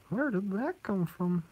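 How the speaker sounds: high, slow baffled question. Real, not acted. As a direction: ask it puzzled and drawn out.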